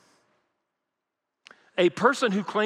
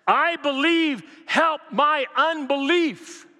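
crying out; 9 semitones higher, slower than usual. Acted. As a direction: cry it out like a desperate father. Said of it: "It is a cry".

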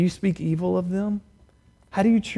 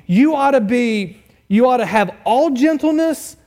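"you ought to have all gentleness" higher, leaning hard on "all"; emphatic; 5 semitones higher, 4 dB louder than usual. Shown as a demonstration. Preacher relays Paul being emphatic, stressing "all gentleness". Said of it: "emphatic here".

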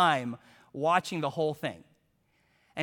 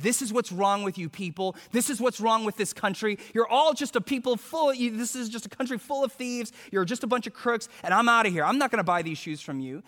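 raised, indignant mock rant; hammed-up tirade at a seller; retold yelling; 4 semitones higher than usual. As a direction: keep the accusations rolling, voice climbing. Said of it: "I started yelling at her".

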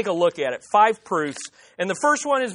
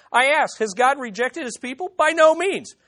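firm, raised-pitch denial after the question; emphatic; 4 semitones higher than usual. Acted. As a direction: put real force on the answer. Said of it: "He starts out real emphatic".

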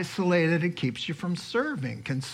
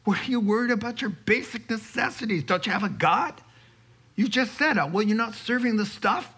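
lightly voiced Jesus; 5 semitones higher than usual. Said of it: "he says".

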